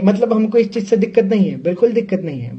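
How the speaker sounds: hurried, defensive reassurance; flustered disclaimer. Real, not acted. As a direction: rush to insist you don't mind. Hastily disclaims objection to skirts.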